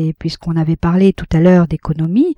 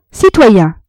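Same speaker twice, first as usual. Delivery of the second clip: calling out; 3 semitones higher, 6 dB louder than usual. A narrator's reading. Compin calling for attention.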